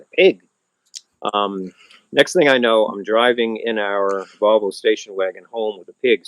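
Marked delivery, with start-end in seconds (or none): 0.0-0.4 surprised. Retold or imitated. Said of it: "I said".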